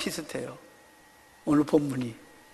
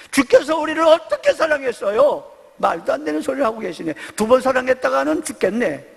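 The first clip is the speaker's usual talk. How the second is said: higher, sarcastic retort; scoffing disbelief; 4 semitones higher than usual. Retold or imitated. Israel scoffing back at God, sarcastic. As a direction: scoff at the idea of being loved. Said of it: "뭐 그런 뜻입니다".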